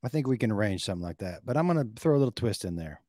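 lightly voiced salesman-host persona with sudden loud peaks; Clyde Blackstone. Host offering caller a birthday steak discount, lightly played persona. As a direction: pitch the sponsor as a showy host character.

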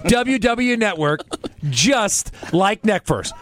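slow stiff slogan; bad acting. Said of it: "put a disclaimer".

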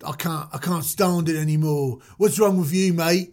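lightly put-on British street voice; a hint of rebellious British bad boy; wrong-side-of-tracks Moses. Moses grumbling at the establishment, lightly voiced street rebel. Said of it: "on the other side of the tracks vibe".

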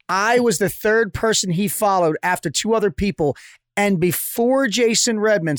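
usual speaking voice

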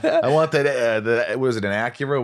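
high, loud mock greedy agent; host voices the agent demanding the client's car. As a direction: play the grasping agent with a laugh. Imagined agent wants the car.

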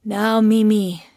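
put-on mildly drunk, stretched-out words; drunken slur. A narrator's reading. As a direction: draw it out like a tipsy master. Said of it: "Bjergen slurred in French".

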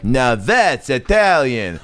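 slow, drawn-out catchphrase; milk the tag line slowly; Italian comic catchphrase. Retold or imitated. Comic duo signing off with a slow catchphrase. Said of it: "they would end with these things being like".

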